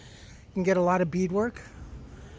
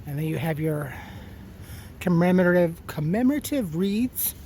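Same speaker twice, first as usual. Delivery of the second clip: talking around candy; candy in the mouth; mouth full of candy; 4 semitones lower than usual. Real, not acted. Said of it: "sweet candiness in my mouth".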